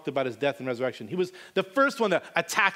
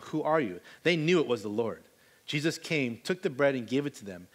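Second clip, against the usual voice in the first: measured Bible reading voice; steady scripture reading. Acted. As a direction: read the passage aloud to the congregation. Reads John 21 aloud.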